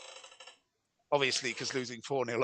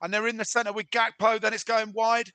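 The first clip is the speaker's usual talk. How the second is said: higher-pitched running commentary; match commentator's raised pitch; live football commentary; 6 semitones higher than usual. Acted. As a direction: follow the attack as it opens up. Live play-by-play.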